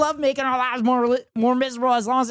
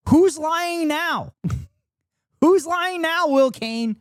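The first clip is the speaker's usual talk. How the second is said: slow, higher, louder gloat; gloating taunt; 6 semitones higher, 3 dB louder, much slower than usual. Real, not acted. Host taunting the pundit over the signed map, gloating. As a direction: drag it out to rub it in.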